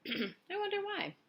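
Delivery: very high, slow, dainty voice; ladybug voice. A narrator's reading. Ladybug musing about their speed, very high slow voice. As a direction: wonder it lightly in a tiny voice. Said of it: "the ladybug said".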